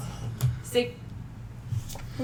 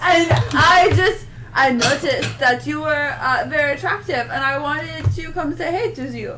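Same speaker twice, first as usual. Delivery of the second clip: fumbling fake French accent; awkward flirt in terrible French; bad French accent. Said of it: "You have a really bad French accent".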